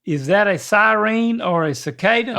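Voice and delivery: "siren" said sigh-REEN, Southern style. Shown as a demonstration. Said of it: "Read it one more time".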